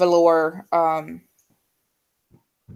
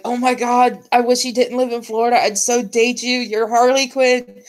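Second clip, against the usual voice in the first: imitated gushing; 5 semitones higher than usual. Retelling crush's delighted reaction.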